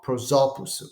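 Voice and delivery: "prosoposu" as one word, stressed on the second syllable; su without accent. Shown as a demonstration. Teacher showing the lost accent, su unstressed. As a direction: stress "so" in "prosoposu", leaving the final su weak. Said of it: "the accent of Sue is simply lost".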